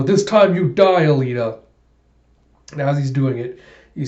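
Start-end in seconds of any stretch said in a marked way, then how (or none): 0.0-1.6 villain threat. Retold or imitated. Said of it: "You go".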